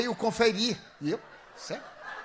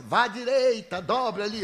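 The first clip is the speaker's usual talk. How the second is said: louder, higher guiding call; imitated loud directions; 4 semitones higher, 4 dB louder than usual. Clerk guiding the pretend blind man, imitated loud directions. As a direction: play the clerk calling out turns loudly. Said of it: "Fale alto".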